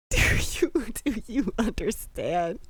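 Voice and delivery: breathless, hushed do you understand; stunned whisper. Real, not acted. Stunned viewer whispering to the camera about the twist, hushed. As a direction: whisper it in disbelief.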